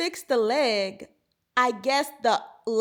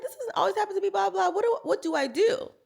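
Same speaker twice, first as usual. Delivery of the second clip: higher, lightly whiny protest; mock protest; 9 semitones higher than usual. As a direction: protest in a put-on whine. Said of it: "I'm like".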